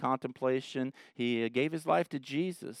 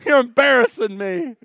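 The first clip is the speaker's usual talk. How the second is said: higher, laughing mock plea; embarrassed uncle; 9 semitones higher, 7 dB louder than usual. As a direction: beg him to sit down, laughing. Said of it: "it's like".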